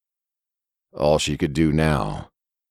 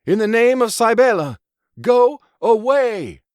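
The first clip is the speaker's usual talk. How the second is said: invoke the goddess and command it gone; bellowed command; 5 dB louder than usual. Acted. Judith commanding the beast in Cybele's name, bellowed. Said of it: "bellowing orders like she would".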